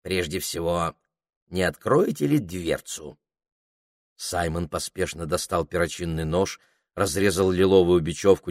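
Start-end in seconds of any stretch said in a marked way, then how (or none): 0.0-3.2 the parrot calmly asking to be let out. Acted. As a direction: settle down and ask politely. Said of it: "произнёс попугай спокойно".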